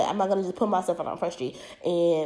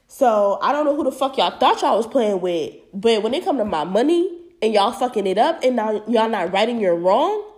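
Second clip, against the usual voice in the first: angry rant; 4 dB louder than usual. Real, not acted. Angry rant about unpaid wages.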